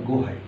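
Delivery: "গো হাই" with the h kept; unchanged pronunciation. Shown as a demonstration. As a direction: say "গো হাই" with no sound change. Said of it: "এটা as it is".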